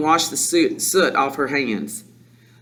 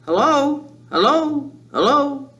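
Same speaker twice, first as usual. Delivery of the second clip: high squawky parrot hello; talking parrot; 10 semitones higher, slower than usual. A narrator's reading. Parrot suddenly greeting two waiting children, parrot voice. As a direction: mimic a parrot, each word separate and high. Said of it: "exactly like a human voice".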